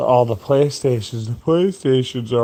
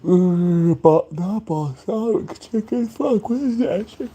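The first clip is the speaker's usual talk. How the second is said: high frustrated voice; 9 semitones higher than usual. Acted. Struggling to recall dish name.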